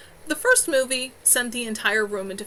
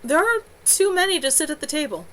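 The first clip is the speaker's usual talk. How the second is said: puzzled; 6 semitones higher, 4 dB louder than usual. A narrator's reading.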